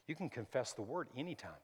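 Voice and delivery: unvoiced whisper; under your breath. Shown as a demonstration. Pastor showing how to confess at work, whispering. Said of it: "under your breath".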